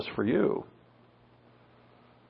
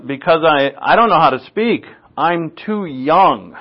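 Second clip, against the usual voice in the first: hammed-up Brooklyn whine; mock Brooklyn accent; 3 semitones higher, 3 dB louder than usual. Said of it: "I love my cousin Vinny".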